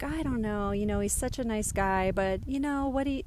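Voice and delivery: lightly imitated hesitant dad; mild impression of a non-committal dad; indirect dad. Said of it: "never have been so upfront and direct".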